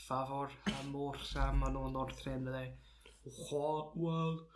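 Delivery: hammed-up fake Old Norse eulogy; mock Old Norse. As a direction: solemnly declaim nonsense Old Norse. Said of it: "whole eulogy in Old Norse".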